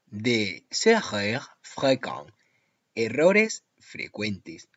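slow, weighty warning. Shown as a demonstration. Teacher warning Spanish students about frequent errors, slow and weighty. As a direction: spell out the common mistakes slowly. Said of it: "Atención".

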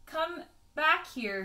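calling the dog back, loud and drawn out; shouting. Acted. Mabel shouts to Pippin to come back. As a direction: yell after the runaway dog. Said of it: "she shouted Mabel".

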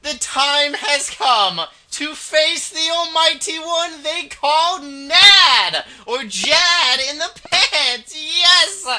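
slow, high, dramatic hype; epic announcer. Acted. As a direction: announce it like a grand showdown.

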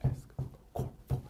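slow whispered phrase. Shown as a demonstration. Teacher whispering the drill ending slowly, slow whisper.

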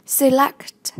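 "Select" stressed on LECT; light se, weighted LECT in "Select"; stress on second syllable. Shown as a demonstration. Teacher modelling vocabulary for learners, "Select" stressed on LECT. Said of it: "nhấn âm hai".

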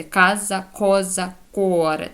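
«Каза», «коза», «куоре» each opening on hard k; hard k recap. Shown as a demonstration. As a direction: list «Каза», «коза», «куоре» as reading models. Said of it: "от, як воно читається".

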